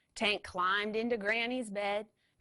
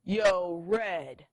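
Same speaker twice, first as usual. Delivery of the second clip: mild purr; 6 dB louder than usual. Acted. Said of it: "purred Tank".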